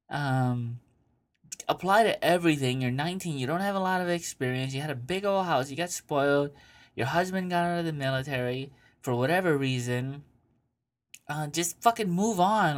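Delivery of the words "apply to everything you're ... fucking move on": high, brisk scolding advice; tough-love lecture. Real, not acted. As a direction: lecture her bluntly. Lecturing the letter writer.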